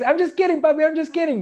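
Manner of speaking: put-on sing-song apology like a cheeky child; imitating the son. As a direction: son backing down playfully to his dad.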